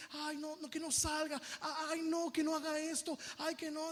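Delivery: hammed-up overprotective worry; mock coddling. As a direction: imitate someone fretting over a poor soul. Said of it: "a veces tratamos a la gente así".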